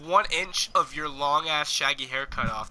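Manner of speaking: exasperated teasing. Real, not acted. Teasing a friend about his haircut, mock outrage. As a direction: pile on the ribbing, half laughing.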